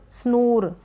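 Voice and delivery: स्नोर said slowly with a closed "oo"-like vowel; the version to avoid, स्नोर with oo; गलत उच्चारण स्नोर; wrong pronunciation. Shown as a demonstration. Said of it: "इस तरीके से हम इसको pronounce नहीं करेंगे".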